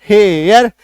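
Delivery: हेयर with a long ए, then यर; demonstrated pronunciation. Shown as a demonstration. Teacher showing the vowel sign plus यर, demonstrated pronunciation. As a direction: stretch हेयर out clearly. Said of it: "एकार की मात्रा यर".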